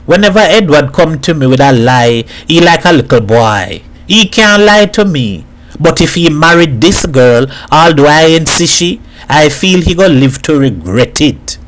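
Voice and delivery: lightly voiced Trinidadian neighbour; a touch of worried certainty; knowing Hat. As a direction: pass judgment in lilting Trinidad dialect. Hat gives his verdict on Edward.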